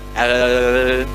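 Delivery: low monotone imitation of a dead mic; imitated dead microphone. Speaker shows students what a dead mic sounds like, low droning imitation. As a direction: drop low and hold a droning noise. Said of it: "Ini kalau mic-nya mati".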